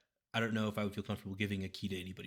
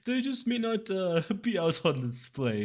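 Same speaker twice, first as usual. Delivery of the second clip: sly shopkeeper Garfield; 11 semitones higher, 8 dB louder, slower than usual. Acted. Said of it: "Garfield's like".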